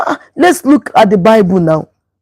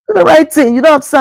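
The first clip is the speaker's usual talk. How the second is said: higher, emphatic repeat of Do the right thing; firm command; 4 semitones higher, faster than usual. Shown as a demonstration. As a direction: press Do the right thing with raised pitch. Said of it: "I always shout".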